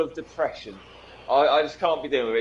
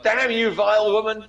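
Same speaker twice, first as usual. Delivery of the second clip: lightly voiced Stewie, a bit higher and louder; Stewie impression; 6 semitones higher, 4 dB louder than usual. Friend quoting Stewie from Family Guy, mock theatrical outrage. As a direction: quote the cartoon baby villain with a hint of his theatrical outrage. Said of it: "You got fucking Stewie".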